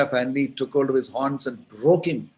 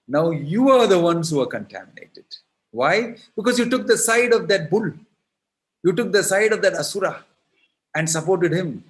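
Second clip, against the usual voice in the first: higher, louder, playful blame; teasing accusation; 6 semitones higher, 4 dB louder than usual. Acted. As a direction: turn the tables on them with glee. Krishna turns blame on gopis.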